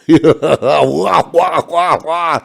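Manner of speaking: baby-like mock wail; mock bawling wah wah; mock crying wah. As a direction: whine like a crybaby to mock him. Mocking a cynic's whining.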